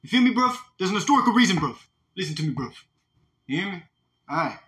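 playful fake British accent, bruv; mock British accent. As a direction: drop into a hammed-up London accent. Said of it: "Gotta get British".

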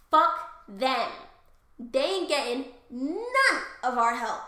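loud, drawn-out mock tirade; hammed-up goddess fury. Spurned goddesses cursing Troy, mock-furious shouting. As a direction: curse them out slowly, punching every phrase. Hera and Athena raging at Troy.

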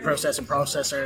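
"process" and "processor" with a long O; British-style pronunciation. Shown as a demonstration. Host listing inherited English words, long O in "process". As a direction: say PRO-cess and PRO-cessor, long first O. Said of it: "I grew up saying the words like process".

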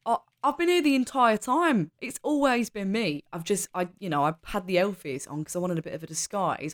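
lightly put-on northern English accent. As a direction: answer as a chatty northern woman. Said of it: "I wish I'd chosen that accent".

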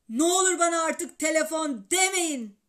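loud, pleading outburst; exasperated shout. A narrator's reading. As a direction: beg them at full voice to stop. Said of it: "diye bağırdı babam". (bezgin, bağırarak yalvarma)

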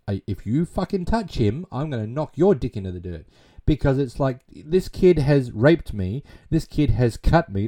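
retold angry outburst. Wife warns husband off saving her attacker, retold anger. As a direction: push it up in an indignant retelling. Retold furious threat from Diane.

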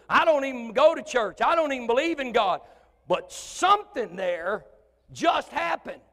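high, loud, slowed astonishment; bewildered skeptic shouting questions; stunned unbeliever. Retold or imitated. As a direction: blurt out total bafflement. Unbeliever reacting to miracle.

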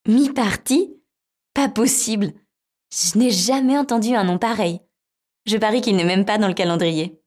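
high, bright little mouse; squeaky mouse voice. Acted.

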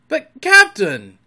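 high, loud, drawn-out objection; shouted protest. A narrator's reading. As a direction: cry out in dismay to the captain. Pirate protests to his captain.

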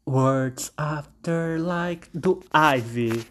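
nome da música bem arrastado; lento e enfático. Real, not acted. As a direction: anuncia o primeiro lugar bem devagar. Anuncia primeiro lugar. (bem devagar, com ênfase)

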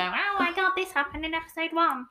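high excited gush. Retold or imitated. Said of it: "you'll go".

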